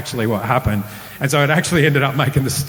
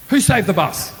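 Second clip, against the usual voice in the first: higher, louder hype voice; pump-up corner man; 7 semitones higher, 4 dB louder than usual. Retold or imitated. Counsellor pumping up the boy like Rocky's corner man. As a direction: fire him up like a boxing coach. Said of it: "like he was Rocky's corner man".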